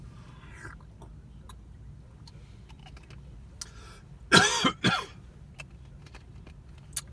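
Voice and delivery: long whispery coughs; wheezy coughing. Real, not acted. Still choking on taquito.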